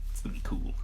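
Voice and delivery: breathy whisper. Real, not acted. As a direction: whisper it close to the mic. Whispered aside.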